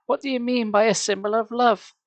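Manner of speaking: high, insistent demand; high demanding question. Acted. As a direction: demand an answer. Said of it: "Carly Beth demanded".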